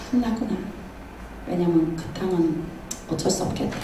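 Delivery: soft, resigned acted murmur; quiet acted resignation; giving up. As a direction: let it sink low, as if conceding defeat. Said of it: "이렇게 포기해요".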